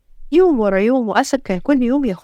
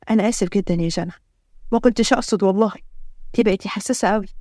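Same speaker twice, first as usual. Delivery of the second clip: lower, soothing male-character voice; gentle apology; 3 semitones lower than usual. Acted. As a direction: soften it to calm a crying wife. Husband apologises to crying wife. (اعتذار بحنان)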